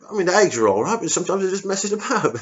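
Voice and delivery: high, anxious little voice; a scared private dodging trouble with his officer; jittery squaddie squeak; nervous soldier. Retold or imitated. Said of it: "you can tell he's nervous".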